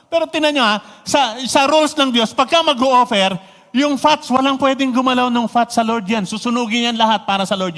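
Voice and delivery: emphatic preaching. Real, not acted. Preacher emphasizing God's rules.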